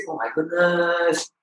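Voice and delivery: slow, drawn-out exasperated groan of words; weary exasperation. Acted. Listener sitting through everyone's school updates, fed up and weary. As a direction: drag it out, mock fed up.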